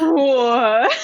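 high, cracking disbelief; a crying-laugh what; stunned what. Retold or imitated. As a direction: gasp it out in shock. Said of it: "I was like".

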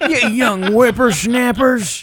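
put-on slow, high cranky old man. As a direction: scold like a grumpy grandpa. Joining the old Indiana Jones bit.

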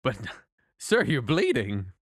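lightly voiced kindly temple keeper; gentle temple gatekeeper. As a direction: welcome the wounded traveler gently.

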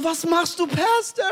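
high, mock-panicked inner protest; alarmed disbelief. Preacher's silent protest to the pastor, acted high panic. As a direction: rise sharply into disbelief.

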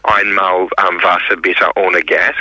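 Einmal, Wasser bitte ohne Gas said in careful tourist German, slow; German phrase. Shown as a demonstration. The speaker showing Tone his new German phrase, careful learner German. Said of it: "I know how to say".

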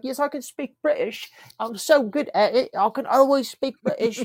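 imitating a coworker's bad British accent, high; boastful, high-pitched put-on British accent; mock British accent. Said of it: "the British accent".

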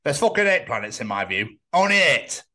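mock-indignant Yorkshire voice; a Yorkshire bloke laying down his view; Yorkshire accent. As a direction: put on a blunt Yorkshire accent. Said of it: "why I put Yorkshire accent on".

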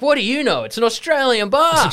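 high, mocking scoff; high, loud mock scoff; scoffing friends. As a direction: brush off the know-it-all in a high voice. Friends mocking her warning.

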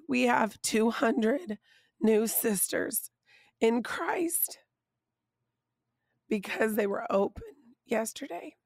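hoarse, half-voiced and worn out; raspy whisper. Real, not acted. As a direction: push words through a lost voice. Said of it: "That's why I have no voice".

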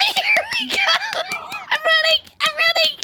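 giddy, giggly and playful; playful excitement. Acted. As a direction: run off teasing, giddy. Running off playfully.

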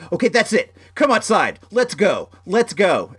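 retold call to step outside and fight; imitating a mad neighbor. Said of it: "I see him get mad".

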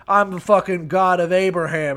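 jumps way up on what the fuck, then loud boasting; angry God. Acted. God snapping at doubting Moses, loud indignant boast. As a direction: blast him, offended and proud.

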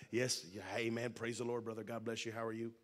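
low, soft rote pleasantries; lightly mimicked churchy small talk, pitched low; putting on a good side. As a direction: run through church greetings as a polite front. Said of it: "Put on our good side".

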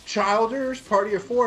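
mock hostess call. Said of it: "they'll say".

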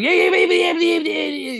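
very high, run-together cartoon jabber; garbled Popeye-like babble. Imitating Buck from the Maritimes, high Popeye-like jabber. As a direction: imitate a tiny man jabbering like a cartoon sailor. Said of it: "sounded like a fucking retarded version of Popeye".

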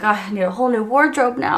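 amused at her own turnaround, giggling; hammed-up wardrobe panic, laughing; laughing mock dismay. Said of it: "I'm like".

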